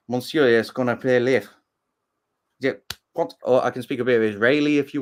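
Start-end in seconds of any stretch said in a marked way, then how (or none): 0.1-1.5 makeshift French, joking; hesitant mock-French polite request; speaking French. Shown as a demonstration. Brit showing off French to Americans, makeshift French. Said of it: "if you want me to speak French".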